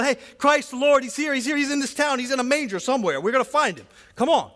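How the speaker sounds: high and loud, bursting with the news; excited shepherd announcing. Retold or imitated. Shepherd telling curious townspeople Christ is here, loud excited call. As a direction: shout the news to the whole town.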